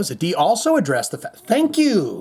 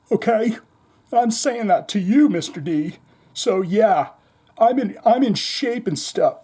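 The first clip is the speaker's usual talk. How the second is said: higher, lightly imitated rocker voice; a hint of a raspy rock singer; a rock singer's voice; 5 semitones higher than usual. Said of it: "He says".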